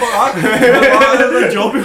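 words swallowed by high laughter; can barely get it out for laughing. Real, not acted. Telling the hand towel story to his bandmates, cracking up.

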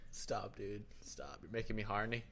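hammed-up Irish accent. Man teases his co-host, in a mock Irish accent. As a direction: put on a jokey Irish accent. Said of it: "Your Irish accent, let me say, is lacking".

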